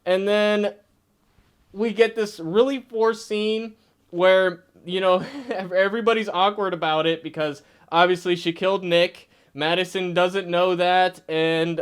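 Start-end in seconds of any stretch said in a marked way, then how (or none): none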